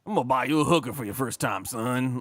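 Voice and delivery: lightly voiced Southern dad; seventies movie dad. Dad promising his son help on his first time, mock Southern dad voice. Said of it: "seventies movie dad that's like".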